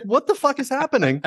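squeaky imitating bewilderment; a hammed-up high-voiced what-the-fuck; high mock panic. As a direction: pitch it up like a panicked bystander. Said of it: "you're like".

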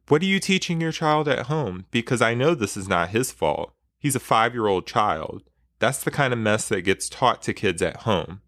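a mother confronts another mom, seething. Acted. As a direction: let the anger boil under each word.

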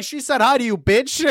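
high, amused retold outburst; mock indignation. Driver passing a cop, indignant on friend's behalf, high mock outrage.

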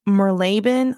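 Merlaben as mur-LAY-bin; instinctive Southern pronunciation. Shown as a demonstration. Confessing her instinct for the London name, Merlaben as mur-LAY-bin. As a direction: Merlaben with a stretched, stressed LAY. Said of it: "I kept wanting to say Merlaben".

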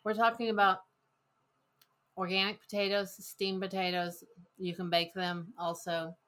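talking with a mouth full; words muffled by a mouthful of food. Real, not acted. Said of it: "She's got a mouthful of potato".

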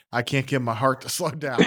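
quoted through a laugh; laughing quote. Retold or imitated. Assistant coach retells the head coach's words after the win, laughing. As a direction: laugh while passing on his words.

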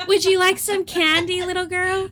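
high, laughing mock creep voice; joking stranger-danger voice; creepy stranger mock. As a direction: ham up the van creep offering candy. Mocking the creepy van man.

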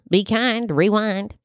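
lightly voiced talk-show host as video clerk; a hint of the host's catchphrase delivery; Ellen. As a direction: lightly imitate a TV host working a shop counter. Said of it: "that's just Ellen working at Blockbuster".

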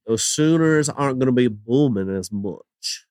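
put-on slow, drawn-out Oklahoma accent. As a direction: lay on an Oklahoma twang, slowly. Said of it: "That's my Oklahoma accent".

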